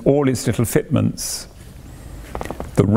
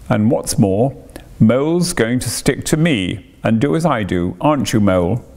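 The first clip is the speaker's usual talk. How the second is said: dogged. Acted. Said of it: "said the rat doggedly".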